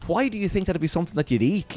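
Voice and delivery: high-pitched retold exasperation; exasperated disbelief. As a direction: reason incredulously with a foolish customer. Retold argument with foolish customer.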